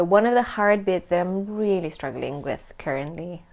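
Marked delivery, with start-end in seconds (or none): 1.6-3.4 lightly upbeat despite the struggle. Real, not acted. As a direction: say the hard news a touch too cheerily. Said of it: "I don't know why I said that so upbeat".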